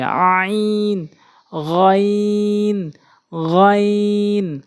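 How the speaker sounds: আইন pressed from the middle of the throat, drawn out; throaty stretched আইন; pressed throat letters. Shown as a demonstration. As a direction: squeeze আইন and গইন from mid-throat, slowly. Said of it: "আইন হলকের মাঝখান থেকে চাপ দিয়ে".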